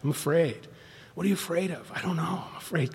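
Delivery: soft, subdued admission of fear; hushed, mildly pained retelling; retold tearful confession. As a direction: confess it quietly, as if near tears. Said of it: "crying and going".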